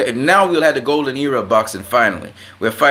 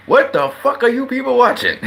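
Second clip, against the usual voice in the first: high, incredulous yell breaking into a laugh; mock fury that cracks up; laughing outrage; 11 semitones higher than usual. Fed up with boxing commentators, a laughing high yell. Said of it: "I'm like".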